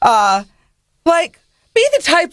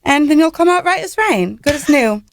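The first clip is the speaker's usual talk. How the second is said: put-on British accent; 4 semitones higher than usual. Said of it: "Do some more".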